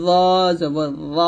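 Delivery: thick rounded ল, tongue at upper teeth; full heavy buzz on ল. Shown as a demonstration. Teacher repeating the heavy letter, heavy zo. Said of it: "heavy করে, মোটা করে".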